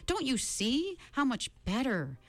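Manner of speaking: lightly voiced smooth-talking captor; man on the chair. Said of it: "Charles Wallace said".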